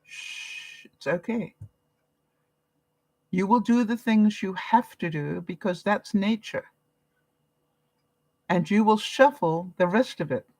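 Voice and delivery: hushed, gentle shushing; soothing a child. Retold or imitated. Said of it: "And I'm going".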